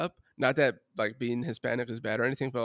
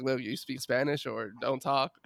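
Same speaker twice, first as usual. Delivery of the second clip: strict grandpa; 6 dB quieter than usual. Retold or imitated. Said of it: "my grandpa would always be like".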